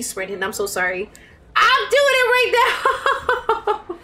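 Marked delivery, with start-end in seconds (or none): 1.6-4.0 higher, slow Australian accent through a laugh. Shown as a demonstration. Streamer confesses still using Australian accent, laughing Australian accent. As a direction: slip into a giggly Australian accent. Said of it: "continuing to speak in an Australian accent".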